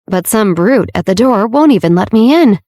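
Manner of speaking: brute leaned on so the doorman hears; stress on brute. A narrator's reading. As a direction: make sure brute lands pointedly. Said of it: "She emphasized the word brute".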